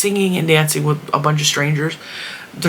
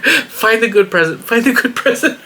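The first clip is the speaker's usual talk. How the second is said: frantic urging; 7 semitones higher than usual. Retold or imitated. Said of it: "I was like".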